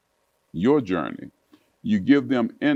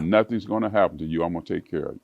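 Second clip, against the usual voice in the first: soothing Nancy; 3 semitones lower, 4 dB quieter, faster than usual. Retold or imitated. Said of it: "Coming from Nancy".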